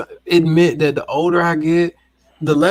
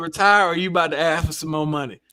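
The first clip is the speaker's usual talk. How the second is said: laughing; much faster than usual. Real, not acted. Teasing joke among friends.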